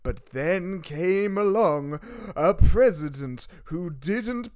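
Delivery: slow, hushed storyteller; spooky voice. Acted. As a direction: creep it out like a campfire tale. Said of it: "said in a spooky voice".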